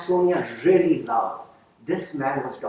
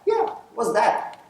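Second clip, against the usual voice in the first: curious surprise; 10 semitones higher, 4 dB louder, slower than usual. Retold or imitated. Principal curious about artifact.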